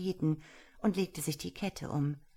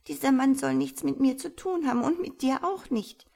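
put-on louder, higher girl's protest; desperate pleading; 9 semitones higher, 7 dB louder than usual. A narrator's reading. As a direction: plead against him, near tears. Girl refuses the wizard.

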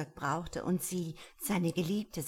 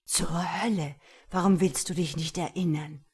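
louder furious demand; angry outburst; 7 dB louder than usual. Acted. The stranger shouting at Patricia for not remembering, furious. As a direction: burst out at her, exasperated.

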